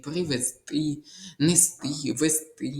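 привезти, нести, вести each stressed on final ТИ; stress on final syllables. Shown as a demonstration. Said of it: "наголос завжди на «ти»". (наголос на останньому складі: привезТИ, несТИ, весТИ)

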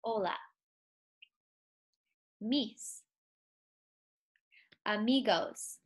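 Hola, mis, amigos spaced out slowly one at a time; word by word. Shown as a demonstration. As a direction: break it into pieces to repeat. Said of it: "So repeat after me".

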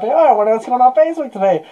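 high-pitched mocking impression; mock idle musing. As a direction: mimic someone idly wondering aloud. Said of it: "He's not".

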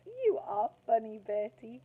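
put-on a sweet girl calling to her crush; sugary little girl. Angela giggling at Bertie.

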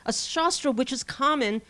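sarcastic. Retold or imitated. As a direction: lay the sarcasm on. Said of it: "he says sarcastically".

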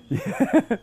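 short high laugh. Real, not acted. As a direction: burst out laughing. Laugh alone.

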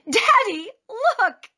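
put-on high, eager child calling out; excited child. A narrator's reading. Taya shows her father the full cart, excited.

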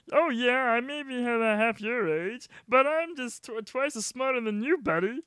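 put-on high, smug teasing kid voice; high cocky young hostage.

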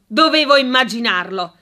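tart, clipped-off remark; sharp tone. Acted. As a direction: say it sourly, as if expected. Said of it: "in tono aspro".

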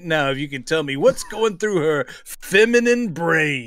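quick, lightly put-on Heston; needlessly dramatic mock bafflement; Heston impression. Co-host as Heston offering money for answers, mock dramatic. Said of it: "He's kinda doing a Heston".

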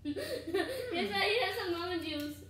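giggling through the words; laughing. Real, not acted. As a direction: laugh while you talk. Child laughing at mom.

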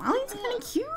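real giddy squeal; high gushing squeal. Real, not acted. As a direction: squeal over a cute sim. Finding a sim cute.

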